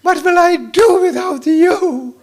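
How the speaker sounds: high, slow, doting wife; wife's voice. Retold or imitated. Wife to husband in the evening, high and doting. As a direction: coo it like an adoring wife. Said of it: "she tells you".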